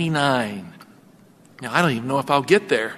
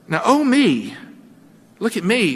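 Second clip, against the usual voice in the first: smug gloating; 4 semitones higher than usual. Acted. Hagar gloating over Sarai.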